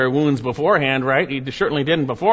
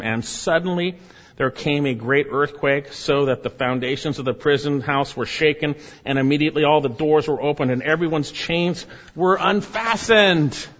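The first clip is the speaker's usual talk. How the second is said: dramatic scripture reading; 3 semitones higher than usual. Real, not acted. Preacher reading the earthquake to the congregation, dramatic scripture reading. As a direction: read scripture with building force.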